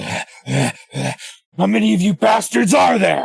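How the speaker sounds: seething, furious voice. Voicing an enemy whose axe blocks a blow, seething with rage. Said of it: "literally seething at the mouth".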